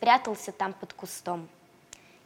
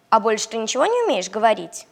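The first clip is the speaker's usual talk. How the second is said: puppy voice; 7 dB louder, faster than usual. Acted. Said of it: "спросил щенок".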